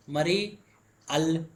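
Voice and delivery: "मरी अल" as two separate pieces; split pronunciation. Shown as a demonstration. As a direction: say "मरी", pause, then a bare "अल" with no y-glide. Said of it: "मरी अल अच्छा नहीं लग रहा". ("मरी अल" को दो अलग टुकड़ों में बोलें)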